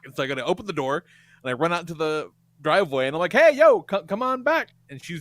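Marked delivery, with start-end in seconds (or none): 3.3-4.7 loud, high retold holler; calling out. Man runs out to the driveway, calling out. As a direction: holler after a car pulling away.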